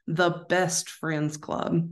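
slow, deliberate repeat; slow and clear. Real, not acted. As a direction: spell out the name slowly. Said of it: "my Southern accent is getting to you".

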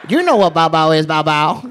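lightly imitated Asian dealer accent; a hint of Asian dealer accent. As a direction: explain it as a mock Asian dealer. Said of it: "I perfected that voice".

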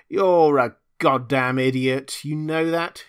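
loud, slow, furious shout at him; angry yell. Acted. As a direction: bellow it at the idiot. Deborah yelling, brandishing bar.

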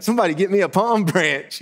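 high-pitched, eager crowd voice; joyful excitement. Acted. Bystander at the king's arrival wanting to join in, high and excited. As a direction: play an overjoyed bystander caught up in it. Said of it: "this great joy they must have felt".

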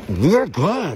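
talking through a mouthful; words round a bite of food; mouth full. Real, not acted. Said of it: "Talk with your mouth full".

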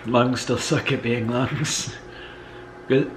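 holding in a cough; choking back a cough. Real, not acted. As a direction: suppress a cough through the word. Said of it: "I was choking back a cough".

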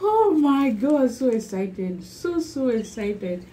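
excited. Real, not acted. Vlogger seeing her new laptop, thrilled outburst. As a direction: burst out with delight.

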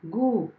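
गु drawn out as a long "goo"; long vowel demo. Shown as a demonstration. Teacher joining ग to long ऊ for pupils, drawn-out गु. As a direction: hold the vowel of गु for extra time. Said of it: "आवाज़ को लंबा व काफ़ी समय दिया".

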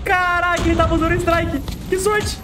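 high shout of disbelief; excited outburst. Real, not acted. Enemy had a killstreak.

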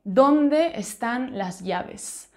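slow, careful example sentence. Shown as a demonstration. Teacher reads an example to online students, slowly. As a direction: spell it out slowly for learners. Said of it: "Por ejemplo".

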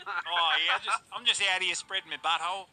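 lightly put-on Aussie accent; a hint of Aussie twang. Shown as a demonstration. Joking with friends in a light Aussie accent. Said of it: "Like Aussie?".

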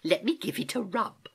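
high-pitched niece offering comfort; soothing, suppressed giggle. Acted. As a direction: coax kindly, half amused. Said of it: "soothed Gedankin, hardly able to suppress a little giggle".

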